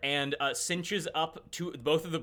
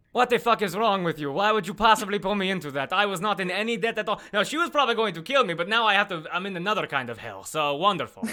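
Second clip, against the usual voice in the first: high, loud, indignant outburst; angry rant; 4 semitones higher, 5 dB louder than usual. Acted. Duke blaming companion for the debt, loud angry rant. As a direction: berate them in a raised character voice.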